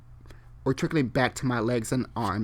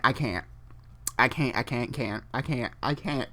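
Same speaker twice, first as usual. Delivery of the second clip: fading I can't; 2 semitones lower, 6 dB quieter than usual. Real, not acted. Giving up, fading.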